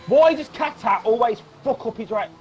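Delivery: real frustration. Real, not acted. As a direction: demand an answer in exasperation. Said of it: "I'm actually really frustrated now".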